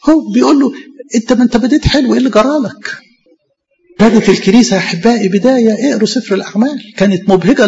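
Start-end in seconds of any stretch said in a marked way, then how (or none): 1.2-3.0 mild regret. Acted. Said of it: "يعني بيقولها بحسرة".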